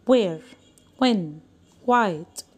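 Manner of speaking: Where, when, white each said as one short beat; one syllable each. Shown as a demonstration. Teacher showing one-syllable words to the class. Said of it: "أنا نطقتها على مرة واحدة".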